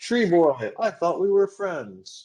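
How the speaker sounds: very high, shrill, loud giant's shout. Narrating a fight, voicing the giant as a blade strikes it: shouting giant. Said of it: "the giant shouts".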